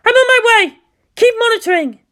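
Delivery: high, loud brisk orders; brisk commander. Acted. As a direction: snap the orders and go. Commander leaving for the front.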